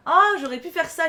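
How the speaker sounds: sudden realization. Real, not acted. Repeats realization, louder.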